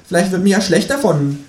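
high kangaroo voice; high-voiced talking kangaroo; kangaroo character. A narrator's reading. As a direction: play the kangaroo, pitched high. Kangaroo goes on.

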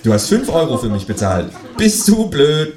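high, loud, squawking phone voice; quacking ringtone. A narrator's reading. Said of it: "quäkt es".

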